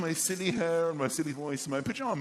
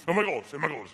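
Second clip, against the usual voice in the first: nervous posh voice; faster than usual. Shown as a demonstration. Posh man confronting an intruder, nervous posh accent. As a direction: panicky posh English accent. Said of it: "my voice goes completely".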